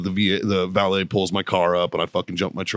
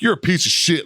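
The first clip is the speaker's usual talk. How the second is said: retold yelling; 10 semitones higher than usual. Lawyer yelling at the process server, retold as mock outrage. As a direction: imitate an indignant lawyer yelling. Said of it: "like, yelling at the guy".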